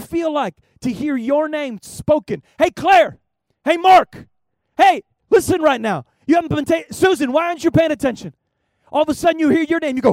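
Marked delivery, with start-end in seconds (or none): 2.6-8.3 calling out names. Retold or imitated. God calling listeners by name.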